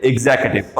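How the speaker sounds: एग्जीक्यूटिव said as ig-ZE-kativ; correct pronunciation. Shown as a demonstration. Teacher answering her own question, correctly pronounced. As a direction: say एग्जीक्यूटिव with no "kyoo", just "kativ". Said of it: "क्या हो जाएगा ये?".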